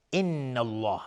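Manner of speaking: the doubled noon of ان held in a nasal hum; ghunna on noon. Shown as a demonstration. Teacher showing two-count ghunna, ان held nasally before الله.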